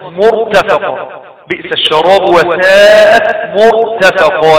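مرتفقة recited with a thick resting R; heavy ra. Shown as a demonstration. Teacher reciting example of مرتفقة, heavy R. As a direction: draw out the verse, keeping ر in مرتفقة heavy. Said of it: "الراء هنا ساكنة يعني فتفخم".

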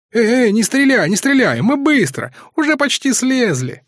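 high, frightened pleading; lightly acted panicked wail. A narrator's reading. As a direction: beg them not to shoot, voice rising high. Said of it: "запричитали лишенцы".

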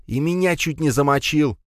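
high-pitched indignant protest; creaky angry retort. A narrator's reading. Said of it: "заскрипел в ответ Пегасов".

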